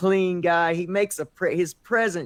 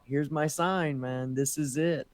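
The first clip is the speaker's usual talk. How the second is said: awed inner voice; 3 semitones lower, 6 dB quieter than usual. Retold or imitated. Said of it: "I was just speechless 'cause I thought".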